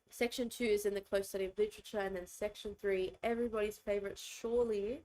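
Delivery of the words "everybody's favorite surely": sarcastic. Real, not acted. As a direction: say it with tongue in cheek. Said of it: "I say that so sarcastically".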